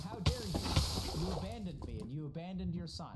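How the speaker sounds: mock-indignant outburst, leaning hard on the words; indignant ex-wife. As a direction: confront him as the wronged ex-wife. Ex-wife confronts man who left.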